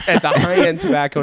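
words bubbling with laughter; amused, giggly delivery; laughing while talking. Real, not acted. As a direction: laugh through the address. Laughing at his own trivia.

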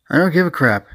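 calling out. Acted. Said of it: "A G called out".

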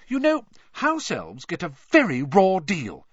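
high, indignant protest. A narrator's reading. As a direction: bristle at the injustice. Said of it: "said Hermione indignantly".

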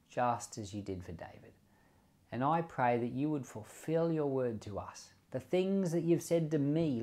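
a lightly hushed closing prayer to God. Acted.

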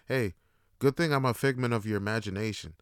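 level, deadpan delivery; dead serious. Acted. Dealer leaving the mistaken passenger, dead serious. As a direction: say it straight, with no laugh. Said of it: "looks at me fucking dead serious".

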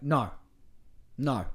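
"No." said calm and even, not harsh; a steady, gentle "No."; calmer no. Shown as a demonstration. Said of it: "Not as aggressive as that".

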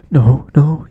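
loud, high-pitched mock protest; hammed-up denial. Accused student denying it to classmates, loud mock protest. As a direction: deny it too hard, high and loud.

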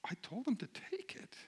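whispered, half to herself; whispered thought. Retold or imitated. Wife imagining her reaction to his text, whispered. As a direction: breathe it out like a private thought. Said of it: "she probably would have thought".

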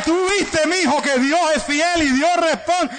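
high, slow, laughing proud dad; laughing father. Retold or imitated. Father laughing as he tells his son God answered, slow and high. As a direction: chuckle it out, proud.

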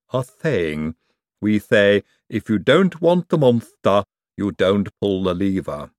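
slow, lowish Igor voice. Acted. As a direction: drag it out like a humble henchman. Igor explains the saying.

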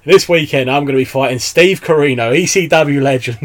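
lightly hyped promo announcement; wrestling promo. Pretend. Guest pitching his dream promo, lightly hyped. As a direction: talk up the opponent in a mock promo. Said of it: "there's two promos I wanted to do".

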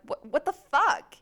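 high, stretched-out outraged yell; mock shocked yell. Retelling a fight with her boyfriend, outraged yell. Yelling at boyfriend over broom.

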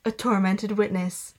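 a light take on a movie trailer announcer; ominous trailer narration, lightly done. Pretend. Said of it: "like, movie trailer voice".

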